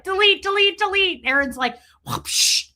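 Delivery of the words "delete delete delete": higher, louder chant of the word; frantic mock. Marilyn frantically deleting videos, high mock chant. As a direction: rattle it off in a frantic hurry. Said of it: "And she's like".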